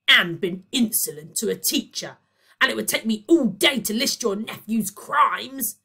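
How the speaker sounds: loud, high angry tirade; roared. Acted. Boyle to the parents, roaring complaints. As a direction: roar the list of crimes. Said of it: "roared Boyle".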